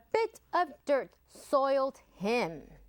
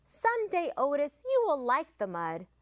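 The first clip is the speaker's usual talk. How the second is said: mama pig voice; 3 semitones higher than usual. Acted. Mama speaks to Otis.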